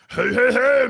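high, teasing sing-song call; mocking self-taunt. Shown as a demonstration. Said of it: "I'm sarcastic with myself".

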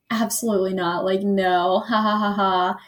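low, offhand refusal with a fake laugh; mock dismissal. Camp girl shutting down the surfer's question, mock dismissal. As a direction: imitate her laughing off the question.

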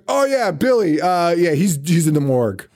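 high start, falling away carelessly; mock rude offhand. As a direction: deliver bad news with breezy indifference. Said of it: "in the rudest way ever".

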